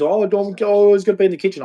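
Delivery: high mocking imitation of her; mock woman.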